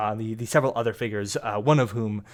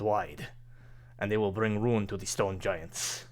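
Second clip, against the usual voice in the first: loyal lieutenant. Acted. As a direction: lay out the plan calmly to your master. General reports to his master.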